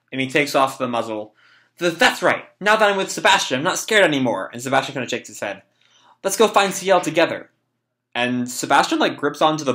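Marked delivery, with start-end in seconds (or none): 1.8-4.5 higher character voice, settling at the end; voiced young boy. Boy no longer scared with Sebastian, voiced young boy. 6.2-7.5 put-on higher-pitched boy character; voiced young boy. Boy to Sebastian, let's go find C L, voiced young boy. Reading boy's line to Sebastian.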